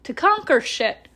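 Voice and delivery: high, slow, triumphant proclamation to the world; grand baby announcement. Retold or imitated. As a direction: announce your arrival like a conqueror. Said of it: "I was like".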